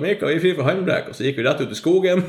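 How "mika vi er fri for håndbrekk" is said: mild retold shout. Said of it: "ropte jeg".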